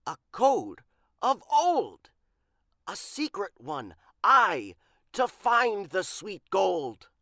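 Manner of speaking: a lightly voiced pirate, loud and thrilled; pirate who smells gold; excited pirate. A narrator's reading. Big Pete discovering the code, excited pirate voice.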